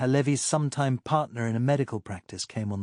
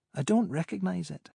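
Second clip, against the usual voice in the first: lightly voiced woman, higher pitch; higher woman's voice; 7 semitones higher than usual. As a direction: play Pamela, amused and higher. Pamela on phone.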